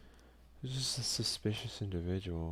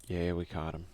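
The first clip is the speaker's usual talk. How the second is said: excited cheer; 5 dB louder than usual. Real, not acted. Player cheers at catching suspect.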